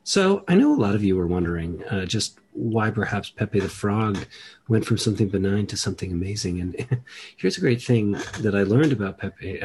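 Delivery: lightly done public radio storyteller; a hint of NPR host, halting then hurrying; Ira Glass. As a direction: muse at the listeners like a radio essayist. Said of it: "I used to have an Ira Glass impression".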